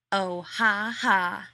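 mock laugh, loud and scornful; sneer. Rodney sneering at John's joke, mock laughing. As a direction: sneer a fake ha ha. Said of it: "Rodney sneered".

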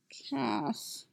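barely voiced mumble into a pillow; mumbled. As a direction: mumble his name, almost whispering. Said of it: "Tim mumbles".

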